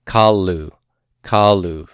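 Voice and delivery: Kalu twice, accent on KA, falling; stress on first syllable. Shown as a demonstration. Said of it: "the accent on that first syllable".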